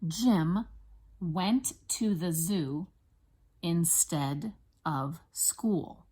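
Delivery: slow, separated words with clear stresses; teacher's deliberate word-by-word reading; spelling dictation. Shown as a demonstration. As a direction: dictate it slowly for first graders to write. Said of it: "I'm gonna say it for you".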